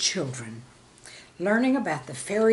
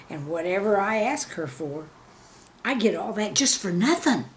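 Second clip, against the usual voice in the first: put-on knowing child; 3 dB louder than usual. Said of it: "the young man clued me in".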